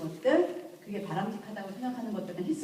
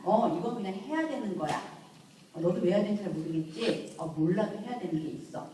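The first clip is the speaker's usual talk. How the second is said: calm firm explanation. Shown as a demonstration. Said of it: "이렇게 하고 가르치셔야 됩니다".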